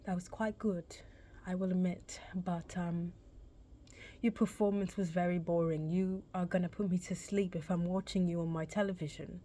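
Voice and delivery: a touch of a polite British director; British accent. Retold or imitated. Director critiquing her audition, a mild British accent. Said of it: "in his British accent".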